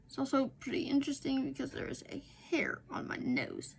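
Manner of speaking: soft unvoiced whisper. Real, not acted. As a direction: breathe the words out. Whispering about nose hair.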